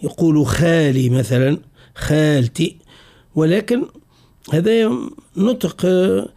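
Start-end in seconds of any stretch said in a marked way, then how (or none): 0.5-1.1 خالي with a light, fronted khae; Tunisian thin kha. Shown as a demonstration. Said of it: "ينطق به مرقق". 1.9-2.8 خالتي with a light, fronted khae; Tunisian thin kha. Shown as a demonstration. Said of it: "ينطق به مرقق".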